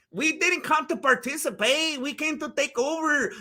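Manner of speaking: a hint of a mock Mexican accent, said jokingly; stereotypical Mexican accent. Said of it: "That's my stereotypical Mexican accent".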